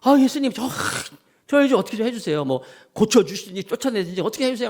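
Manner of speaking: 예수님께 짜증내며 하소연하는 제자들, 높고 칭얼대는 목소리; annoyed disciples. Retold or imitated. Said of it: "제자들이 막 이렇게 예수님께 말씀을". (fed up, pitched way up)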